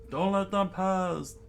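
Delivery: high but full-voiced yell; drawn-out rallying order; shouted command. Young leader rallying boys against bandits, commanding.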